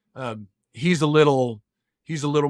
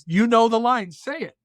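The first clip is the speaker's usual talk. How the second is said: pleading dad; 9 semitones higher, 4 dB louder than usual. Retold or imitated. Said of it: "And so I said".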